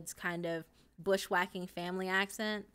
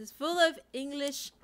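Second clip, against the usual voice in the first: higher put-on Australian accent; 6 semitones higher, 4 dB louder than usual. Streamer joking about criminals, Australian accent. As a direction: jeer lightly in an Australian accent. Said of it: "my Australian one".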